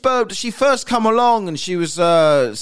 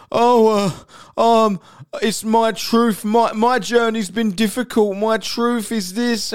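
mock self-pity; 3 semitones higher than usual. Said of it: "And she was all so".

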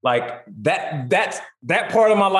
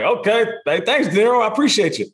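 awkward high thanks; 7 semitones higher than usual. Retold or imitated.

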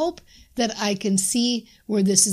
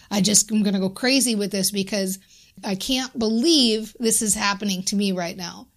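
mild demo anger. Shown as a demonstration. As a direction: act out getting annoyed, then fed up. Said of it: "I shift it by saying a sentence like".

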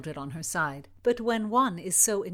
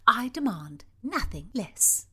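firm princess; 5 semitones higher than usual. Acted. Princess refuses the marquis.

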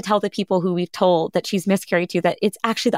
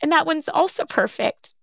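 higher, beaming news of twins; delighted surprise; 5 semitones higher than usual. Retold or imitated. Kind doctor tells the parents it's twins, delighted and higher. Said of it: "he goes".

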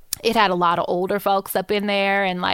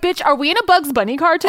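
high, louder retold amazement; high loud mock astonishment; amazed disbelief; 9 semitones higher, 4 dB louder than usual. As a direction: exclaim like you're in a cartoon. Retold amazed reaction to tumbleweed.

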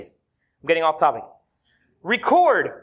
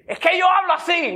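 mock Cuban mom shout; 7 semitones higher than usual. Mom insists she is not yelling, mock shout. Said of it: "That's how I talk".

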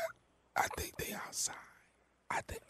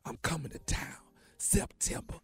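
hushed secret whisper; 5 semitones lower, 6 dB quieter than usual. Acted. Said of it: "Why are you whispering?".

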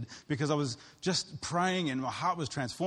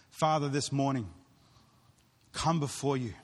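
closing prayer. Acted. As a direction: lead the congregation in prayer.

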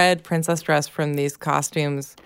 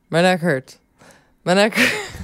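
put-on Midwestern accent; 3 semitones higher, 3 dB louder than usual. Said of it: "In your classic Midwestern accent".

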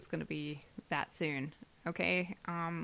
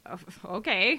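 yawning; 4 dB louder than usual. Real, not acted. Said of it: "You're yawning on the mic".

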